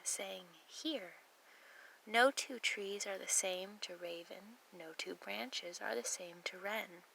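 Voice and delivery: measured verse with deliberate pauses; poem reading. Acted. Hiker reading a poem to someone lost in woods, measured recital. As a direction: recite it evenly, letting each sentence settle.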